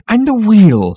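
high, loud enquiry; eager captain. A narrator's reading. Captain asks after the project, eagerly. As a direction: pipe up with interest.

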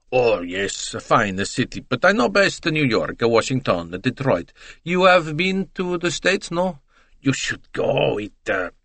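breezy salesman bragging of American cities; chatty Italian witness. Acted.

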